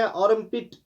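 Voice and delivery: आर्मपिट with a rolled r sounded; wrong pronunciation. Shown as a demonstration. Teacher showing the mistake to students. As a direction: give आर्मपिट a full r. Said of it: "वो गलत है".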